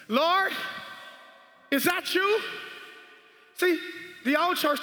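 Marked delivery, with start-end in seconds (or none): 0.1-0.5 tentative call with rising tone; questioning Peter. Acted. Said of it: "Peter said". 1.7-2.4 hesitant question, lifting at the end; questioning Peter. Acted. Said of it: "Peter said".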